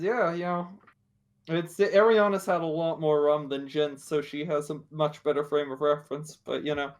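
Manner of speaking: a lightly voiced Southern lady talking about her drinks; easygoing Southern accent. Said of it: "when did Ariana start speaking with an accent".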